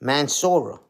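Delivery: "Mansoura", squashed to three syllables, mocking; mocked mispronunciation. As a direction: say "Mansoura" as a garbled Minnesota. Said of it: "they saying it in the chat".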